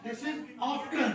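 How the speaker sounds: often said slowly with the t sounded, half laughing; slow modelled phrase. Shown as a demonstration. Teacher to students, slow repeat of often. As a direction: draw out This is often for the class. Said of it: "teacher repeats model slowly".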